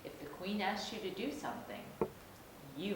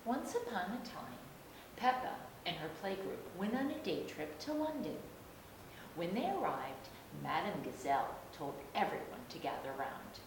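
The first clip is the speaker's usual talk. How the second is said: gentle, lively storybook narration; reading to a toddler. A narrator's reading. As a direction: read it like a bedtime story for little ones.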